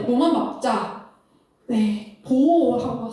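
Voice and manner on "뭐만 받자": slow prompting question. Shown as a demonstration. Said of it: "teacher asks audience".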